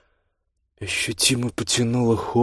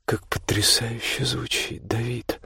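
delighted; 2 semitones higher, 6 dB quieter, slower than usual. Acted. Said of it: "восхищённо проговорила Ольга".

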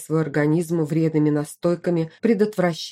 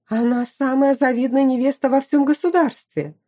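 indignant; 9 semitones higher, 3 dB louder than usual. A narrator's reading. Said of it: "возмутилась Магиана".

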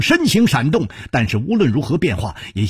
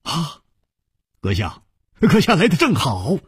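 glad, higher-pitched greeting; delighted; 4 semitones higher than usual. Acted. Hero seeing the youth return, delighted. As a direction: greet him with pleased surprise. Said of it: "不禁喜道".

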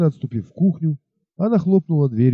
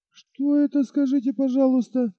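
high mocking question; mock him with a high sarcastic question; 12 semitones higher than usual. Бет насмешливо перебивает жениха, high mocking question.

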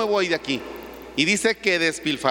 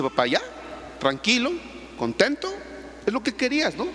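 pleading son; 5 semitones higher, 4 dB quieter than usual. Retold or imitated. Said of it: "Y le dice".

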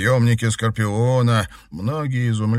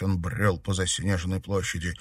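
ordinary delivery

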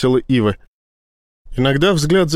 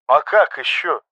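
lightly surprised; 2 semitones higher than usual. A narrator's reading. Pilot answering frantic admiral, lightly surprised. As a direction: ask it with gentle surprise. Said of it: "с лёгким удивлением в голосе".

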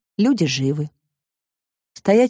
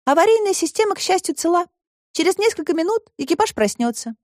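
put-on much higher girl's voice, reassuring; girl Alice; 10 semitones higher than usual. A narrator's reading. Alice explains the crew will wake, higher voice. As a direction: tell the robot the good news as a girl.

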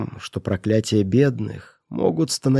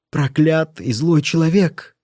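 higher, louder, slow curse; furious shout; 5 semitones higher, 4 dB louder, slower than usual. Acted. Mother shouts curses at her cruel brother. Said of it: "закричала она".

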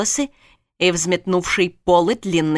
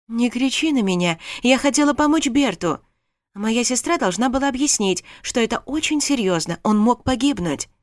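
higher, heated protest; indignant; 5 semitones higher than usual. Acted. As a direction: defend herself hotly. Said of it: "не удержалась от возмущения".

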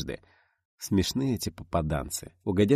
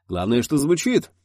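slow, high, loud exclamation; exclaiming; 7 semitones higher, 6 dB louder than usual. A narrator's reading. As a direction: exclaim it with relish. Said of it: "воскликнул Леонид Иович".

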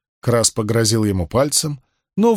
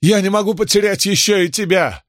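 pleading wife; 8 semitones higher than usual. A narrator's reading. Wife begs her husband.

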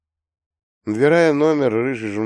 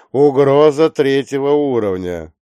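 loud, higher alert, "угроза" stressed; urgent alert; 5 semitones higher, 8 dB louder than usual. Acted. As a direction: lean hard on "угроза". Dispatcher repeats threat level.

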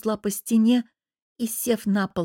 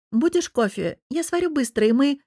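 higher-pitched, appeasing wife; placating offer; 6 semitones higher than usual. A narrator's reading. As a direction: offer it lightly to calm him. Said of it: "стараясь успокоить его, предложила".

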